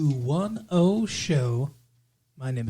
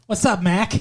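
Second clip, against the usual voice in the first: put-on teasing Boston-accented greeting, slightly higher; mock Boston accent; 4 semitones higher than usual. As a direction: imitate someone from Boston. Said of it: "Or no, Boston".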